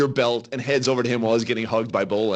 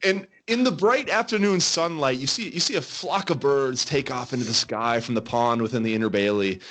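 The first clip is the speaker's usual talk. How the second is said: game master narration; 3 semitones lower than usual. Acted. Game master describing the city to adventurers, storytelling narration. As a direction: paint the city view and hand the choice to the players.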